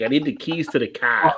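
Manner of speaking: quick demo of a Boston accent. Shown as a demonstration. Friend showing Craig an easy option, Boston accent. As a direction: drop the R's like a Bostonian. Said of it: "just do like a Boston one".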